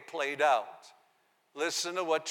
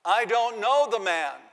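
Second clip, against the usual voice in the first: oath-sworn denial; 5 semitones higher, 6 dB louder than usual. A narrator's reading. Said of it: "He denied it again with an oath".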